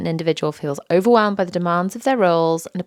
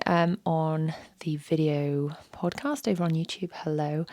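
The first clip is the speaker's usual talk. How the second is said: voice failing; 4 dB quieter than usual. Real, not acted. Sore throat voice failing.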